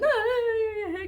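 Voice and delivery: high-pitched imitation crying; mock wailing. Preacher imitating the crowd at the dead girl's house, mock wailing. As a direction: wail like a mourner, put on for effect. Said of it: "tá todo mundo chorando".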